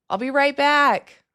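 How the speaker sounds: playful high lilting reassurance; sing-song promise. Pretend. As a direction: coo it to the viewers. Begging viewers not to leave.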